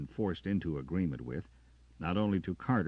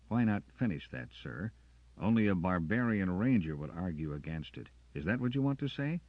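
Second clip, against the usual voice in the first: louder, sharp ranger's retort; defiant challenge; 5 semitones higher, 5 dB louder than usual. Acted. Carter confronting the officer, louder and defiant. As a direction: throw his words back at him.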